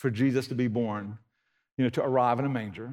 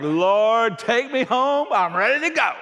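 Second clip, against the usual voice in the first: put-on high, louder old man's plea; a hint of an old man ready to die; old Simeon; 9 semitones higher, 7 dB louder, slower than usual. Simeon praying to the Lord, lightly voiced old man. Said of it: "he was like".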